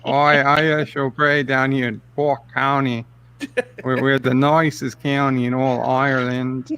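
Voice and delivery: lightly hammed-up Irish countryman; put-on Irish accent. Host plays a Cork local on request, mock Irish accent. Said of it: "give him the full Irish".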